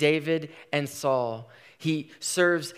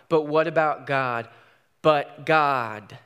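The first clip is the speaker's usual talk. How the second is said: louder, urgent repeat; rising cry; 6 dB louder, slower than usual. Acted. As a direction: build the question into a cry. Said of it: "asks the simple question".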